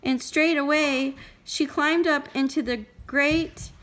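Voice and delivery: put-on measured storytelling for a small child; story read-aloud. A narrator's reading. Parent reading Goldilocks to a child, expressive storytelling.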